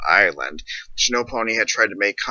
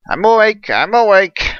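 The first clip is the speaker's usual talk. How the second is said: startled reply; 11 semitones higher, 6 dB louder than usual. Acted. Dazed lieutenant jolted awake.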